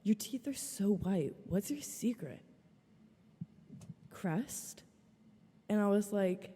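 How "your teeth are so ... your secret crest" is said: mock flirty question, softer at the end; mimicking the match. Match texting her, mock cheesy pickup line. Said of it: "And he's like".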